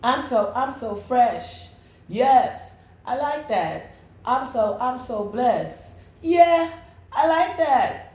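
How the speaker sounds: slow, proud, sassy affirmations; sassy self-praise. Pretend. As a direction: strut through the words, savoring them. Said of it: "just to talk like this".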